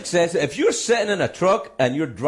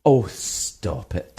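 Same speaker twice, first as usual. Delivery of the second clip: dismissive politician; 7 semitones lower, much slower than usual. Retold or imitated. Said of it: "They went".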